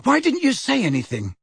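panting. Acted. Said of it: "panting with the effort".

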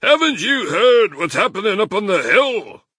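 very high, loud agitated badger; excited. A narrator's reading. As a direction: burst out with alarming news, high and loud. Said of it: "Badger said excitedly".

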